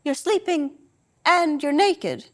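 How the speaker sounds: deadpan mother catching her son out; matter-of-fact. Retold or imitated. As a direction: spell it out flatly, slowly. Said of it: "same matter-of-fact intonation".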